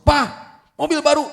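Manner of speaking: very high, loud cry; excited demand. Acted. Son bursts in on his father at home, loud excited demand.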